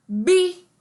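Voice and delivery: a teacher singing out "bi." high and loud; syllable sounded out. Shown as a demonstration. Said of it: "a letra B com a letra I vai ficar". (sílaba "bi." dita mais aguda e bem alto)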